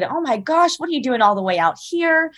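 light up as she hears Clemson; sudden delight. Retold or imitated. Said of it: "immediately her energy changed".

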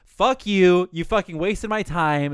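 imagined telling-off of a prank-show host; mildly acted anger, drawing out the complaint; mad. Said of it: "I'd be so mad".

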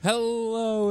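high, drawn-out sultry welcome; sultry perfume ad. Acted. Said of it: "that sultry voice you just heard".

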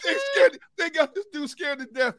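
high, laughing out of breath; breathless laughing. Real, not acted. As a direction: gasp through laughter. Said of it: "I can't even catch my breath".

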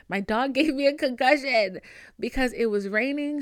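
laughing through the words; amused disbelief, laughing. Real, not acted. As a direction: giggle as you tell it. Laughs while telling.

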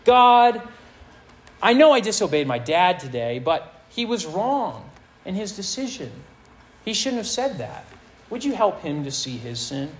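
half-hearted impression of a self-justifying pray-er; mock blame-shifting prayer. Preacher mimics a teen's excuse prayer, mildly whiny. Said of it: "We do this when we say prayers like this".

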